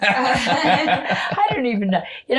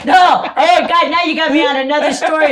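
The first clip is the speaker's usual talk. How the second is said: excited outburst; 5 semitones higher, 7 dB louder than usual. Real, not acted. Excited outburst mid-story.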